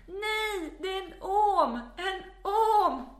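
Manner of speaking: high, loud re-enacted alarm; panicked shouting. Daughter warns parents about a snake, panicked high shout. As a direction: cry out the warning in acted panic.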